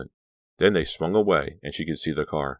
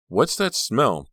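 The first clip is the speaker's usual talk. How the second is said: wondering; 6 semitones higher, slower than usual. A narrator's reading. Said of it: "Danielle wondered".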